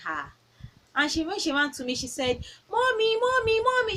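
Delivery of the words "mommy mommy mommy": put-on high, loud little girl calling for her mom; a mother imitating her little daughter shouting for her; excited child calling. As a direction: call out like an excited three-year-old running to her mom. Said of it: "She was shouting".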